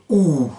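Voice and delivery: "Ou" lengthened like two ou in a row; doubled "ou". Shown as a demonstration. Teacher quotes a specialist's rule, lengthened "Ou". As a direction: let "Ou" run on as one long vowel. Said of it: "comme s'il y avait deux ou qui se suivaient".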